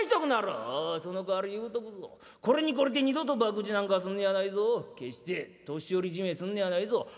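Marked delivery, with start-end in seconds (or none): 2.4-4.9 put-on firm, lower scolding of a young gambler; stern warning. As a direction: lay down the law like an old boss. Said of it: "おやっさんのおっしゃる通り、これに懲りて". (懲りて二度と博打なんかすんねやないぞ、と低めに厳しく言い聞かせる)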